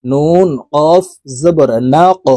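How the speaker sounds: the কফ in না ক bounced upward with a jolt; qalqalah on qaf. Shown as a demonstration. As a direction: push the কফ of না ক up with a hard bounce. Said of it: "কফ কলকলার হরফ উপরের দিকে ধাবিত করে".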